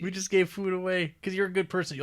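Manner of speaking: lightly voiced cheery hick; folksy storekeeper. Host riffing on old-time generosity, light hick voice. Continuing the folksy Lincoln bit.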